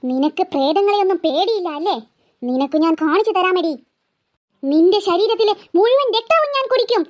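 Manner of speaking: low, menacing bloodthirsty ghost voice; ghost threat. Acted.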